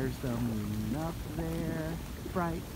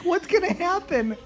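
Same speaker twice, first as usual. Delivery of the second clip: put-on baby voice; 7 dB louder than usual. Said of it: "He's like".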